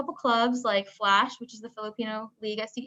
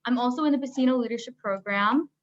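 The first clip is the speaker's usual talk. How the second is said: muffled through a mask; talking behind a face mask. Real, not acted. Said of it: "sorry, I have my mask on".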